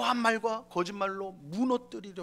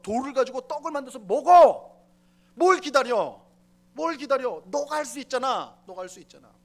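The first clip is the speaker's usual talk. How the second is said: raised, goading jeer; devil taunting Jesus; 3 semitones higher, 7 dB louder than usual. Acted. Preacher voicing the devil goading Jesus in the wilderness, jeering. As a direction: push him like a mocking tempter. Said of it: "뭐라고 말을 하냐면".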